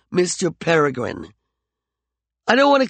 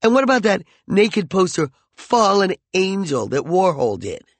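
higher, louder cutting taunts; angry taunting; 6 semitones higher, 4 dB louder than usual. Acted. McCoy taunts Peregrine in their quarrel, louder and higher. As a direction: wound her with every word.

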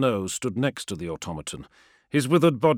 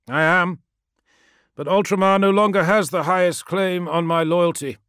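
higher, louder, defiant legionary; proud warrior voice; 8 semitones higher, 7 dB louder than usual. A narrator's reading. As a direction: state it with firm pride. Promus speaks.

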